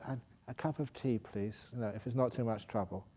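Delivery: gentle, soft polite plea. Retold or imitated. Passenger reminds the flight attendant of his tea, softly polite. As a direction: ask meekly, trailing off quietly. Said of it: "So he said".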